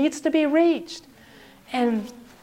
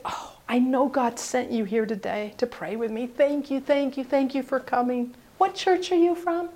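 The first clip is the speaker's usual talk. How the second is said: softened grateful woman; 5 dB quieter than usual. Retold or imitated. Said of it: "she just melted".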